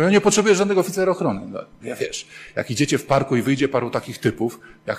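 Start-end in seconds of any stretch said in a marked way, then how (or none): 0.0-1.4 mock defiant woman. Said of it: "Kobiety mówią".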